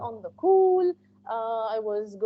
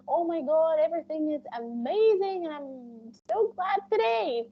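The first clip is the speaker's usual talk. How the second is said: overjoyed gushing, a bit higher; acted happiness; 4 semitones higher than usual. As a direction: gush as if thrilled with everything, lightly acted. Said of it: "they are very happy".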